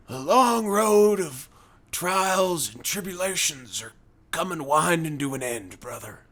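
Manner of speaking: Hulk Hogan. Retold or imitated. Redneck telling a worker his troubles, Hogan-style voice. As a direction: stretch out the first words like a weary wrestler. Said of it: "sounds like his voice is like Hulk Hogan".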